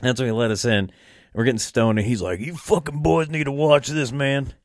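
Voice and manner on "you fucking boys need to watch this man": lightly raised put-on uncle voice; a hint of the uncle. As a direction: nudge the boys like the pushy uncle, only lightly voiced. Uncle urging boys to watch tape.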